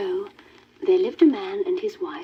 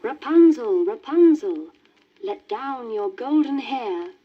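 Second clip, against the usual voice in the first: louder, high witch calling up; 4 semitones higher, 3 dB louder than usual. Acted. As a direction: call up the tower like a witch. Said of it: "she stood underneath and called".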